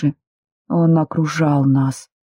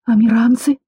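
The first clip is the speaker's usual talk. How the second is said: sudden alarm; 6 semitones higher than usual. A narrator's reading. Heroine suddenly realises who attacks, startled. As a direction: catch yourself, alarmed. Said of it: "тут же спохватилась я".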